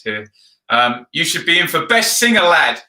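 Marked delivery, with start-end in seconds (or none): 1.1-2.8 loud, lightly put-on Sheffield accent; hint of Sheffield accent. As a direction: read it out with a touch of Sheffield. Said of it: "read that in a Sheffield accent".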